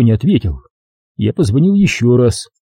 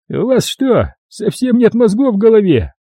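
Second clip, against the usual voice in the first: higher, stern mocking cop; 11 semitones higher than usual. A narrator's reading. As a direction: scold him like a fool. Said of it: "сурово спросил Джерри". (N=Джерри строго отчитывает рассказчика)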